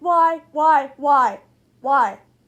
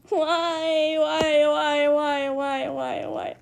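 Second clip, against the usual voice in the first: a run of whys that dies away softer; fading whys; 4 semitones lower, 6 dB quieter, much slower than usual. Real, not acted. Losing a round, whining why until it fades. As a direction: let each why sink quieter in despair.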